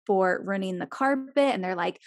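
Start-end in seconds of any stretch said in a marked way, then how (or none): none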